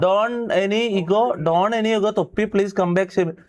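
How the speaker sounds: drawn-out, very slow plea; slow pleading. Real, not acted. Streamer begging Shameer to come back, very slow plea. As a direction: stretch each word, begging him back.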